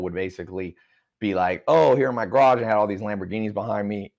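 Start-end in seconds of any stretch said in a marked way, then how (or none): 1.7-2.6 mock commercial pitch. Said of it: "a new Here in My Garage commercial".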